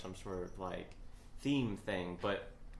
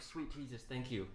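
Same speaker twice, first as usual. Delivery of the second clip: relieved quiet; 7 dB quieter than usual. Retold or imitated. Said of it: "I'm like".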